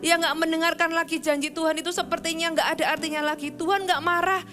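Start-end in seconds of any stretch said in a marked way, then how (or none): none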